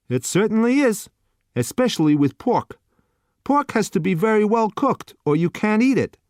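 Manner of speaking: bored waiter pushing the last dish; gruff waiter. A narrator's reading. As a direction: waiter to customer, impatient put-on voice. Waiter explaining.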